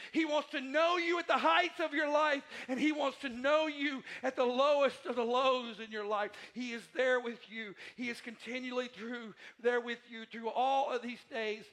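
loud, high, soaring preacher voice; full-force preaching. Acted. Preacher to his congregation about life's mountaintop days, loud and high. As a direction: lift the room, preaching it out loud.

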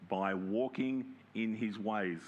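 slow, deliberate stress on walking; emphasized repeat. Shown as a demonstration. Preacher underlining the phrase for listeners, slowly. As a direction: draw out By walking in his ways. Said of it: "You hear that bit?".

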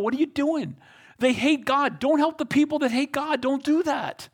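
scold, then soften into encouragement; God rebuking. Acted. Preacher voices God's rebuke.

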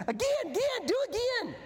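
put-on high, eager child's plea for another turn; excited little boy. Little Cade begging his dad to go again, high and eager. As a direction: pipe it up like a thrilled five-year-old.

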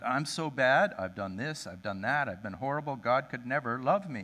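1 despairing confession. Retold or imitated. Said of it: "He just unloaded".

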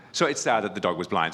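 dry, dismissive aside about the blind dog; with disdain. Real, not acted. Pastor telling the congregation the dog story, a hint of disdain. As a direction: toss it off with a touch of scorn. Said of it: "I said that with disdain".

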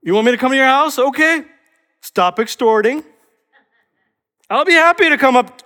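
high, loud bargaining voice; hammed-up conditional offer; imagined conditional Jesus. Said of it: "Notice what Jesus does not say".

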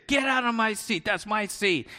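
high, rude mock demand; obnoxious passenger. Pastor mimics the rude couple in the seat, mock rude. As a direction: snap like a pushy passenger. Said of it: "But they were obnoxious".

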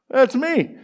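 high, strained mock smoker voice; imitated smoker mid-drag. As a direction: squeeze it out high as if holding in a drag. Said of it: "He takes a big drag out of his cigarette".

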